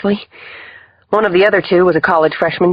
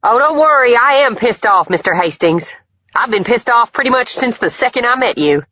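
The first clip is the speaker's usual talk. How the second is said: loud, high-pitched angry tirade; high, heated shouting; furious yell; 4 dB louder than usual. A narrator's reading. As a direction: yell back at him as you leave. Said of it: "Emily yelled".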